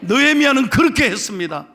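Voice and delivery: high, loud exhortation; impassioned preaching. Real, not acted. Pastor urging congregation to cling to God, impassioned preaching. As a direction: exhort the congregation at full force.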